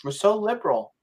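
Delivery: high, mocking sing-song; mocking liberals. Mocking smug liberals to his friend. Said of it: "and they go".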